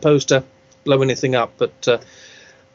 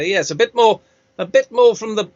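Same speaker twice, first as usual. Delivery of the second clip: slightly higher, throaty actor impression; lightly hammed-up actor, higher in the throat; Matt Berry; 4 semitones higher than usual. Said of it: "a little bit higher in the throat".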